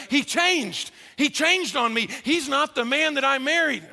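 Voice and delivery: lightly voiced hurt wife; complaining spouse. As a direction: whine it like the wounded partner. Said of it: "And it was like".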